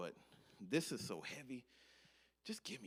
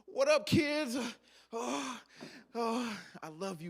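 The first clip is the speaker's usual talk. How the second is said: put-on much louder, higher, bright hello to the kids; cheery greeting; 13 semitones higher, 10 dB louder, slower than usual. Tired dad greeting his kids, loud and high. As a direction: greet them with big dad energy.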